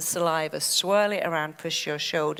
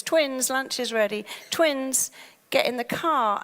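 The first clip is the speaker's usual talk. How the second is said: higher, calling the twins to lunch; a parent calling across the house; mild calling out to the kids; 6 semitones higher than usual. Retold or imitated.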